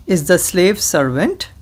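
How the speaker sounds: slow, over-enunciated dictation for repeating; said slowly. Shown as a demonstration. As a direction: spell out each word slowly to be repeated. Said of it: "I will say this slowly".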